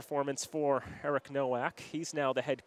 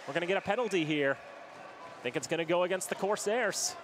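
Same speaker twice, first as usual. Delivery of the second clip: live hockey play-by-play; play-by-play commentary; 2 semitones higher than usual. Real, not acted. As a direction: keep the call going over the action. Play-by-play after the goal.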